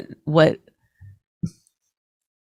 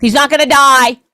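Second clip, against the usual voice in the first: mock blurted fact; 4 semitones higher, 5 dB louder than usual. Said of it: "yell out stuff".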